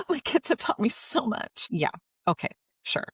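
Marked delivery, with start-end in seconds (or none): 0.0-1.7 sappy, higher mock parent voice; mock the sugary cliché; lightly voiced sentimental parent. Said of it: "it really annoys when people are like".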